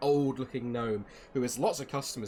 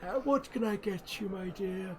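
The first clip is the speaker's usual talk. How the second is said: put-on old gnome; 8 semitones higher than usual. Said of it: "He's like".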